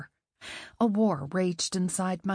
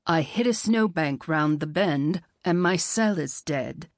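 put-on accented man; 5 semitones lower than usual. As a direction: lower man's voice, slight accent. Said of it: "The phantom voice kept talking".

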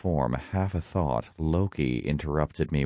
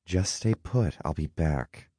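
dismissive; 3 semitones higher than usual. A narrator's reading. Kore brushes Hades off as she leaves, dismissive. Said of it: "she said dismissively".

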